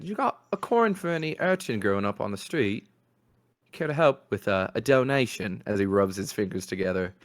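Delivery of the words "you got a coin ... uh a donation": put-on lightly raised begging boy voice; begging urchin. Urchin asks Boney for a coin, lightly voiced begging. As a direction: wheedle for a coin like a street kid. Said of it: "stretches out his hand".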